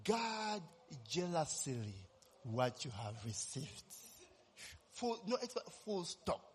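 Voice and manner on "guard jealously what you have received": quieter, lower, set apart; solemn hushed divine voice quoted in a sermon; voice of God, solemn. Retold or imitated. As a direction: let the words fall hushed and grave, a voice from nowhere. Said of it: "it said, eh, that".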